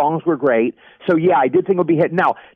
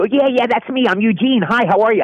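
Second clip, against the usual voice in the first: eager relief; 6 semitones higher than usual. Retold or imitated. Scared man eagerly greets gangbanger.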